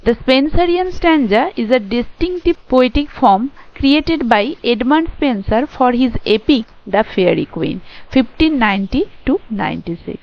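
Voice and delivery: reading notes aloud very slowly, word by word; slow, careful read-aloud of lecture notes; slow dictation reading. Shown as a demonstration. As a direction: dictate it slowly so students can write it down. Teacher reads English notes aloud.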